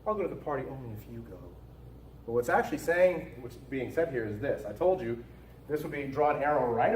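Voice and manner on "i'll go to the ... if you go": light, offhand and quick, a little softer; innocuous voice. Shown as a demonstration. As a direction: toss it off as if it meant nothing. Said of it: "kind of an innocuous voice".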